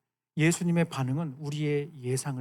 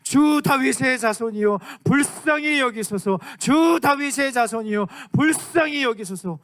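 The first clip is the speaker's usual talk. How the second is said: loud, high, slow pleading cry to the Lord; desperate crying out; 7 semitones higher, 5 dB louder than usual. Acted. Mother shouting to Jesus for her daughter, high slow desperate cry. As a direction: wail it out like a desperate mother begging for mercy. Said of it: "소리 지르면서".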